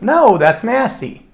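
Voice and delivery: an interviewee recoiling from chocolate-covered sprouts; mock disgusted. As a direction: pull a face at the thought of it. Acted interviewee answering an odd question.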